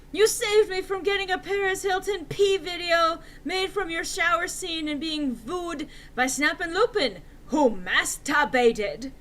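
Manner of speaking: high, loud indignant rant; angry retort. Acted.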